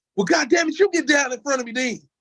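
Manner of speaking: very high, angry, fed-up yelling outburst. The speaker re-enacts an outburst during a football drill, retelling a yell. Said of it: "I just yelled out".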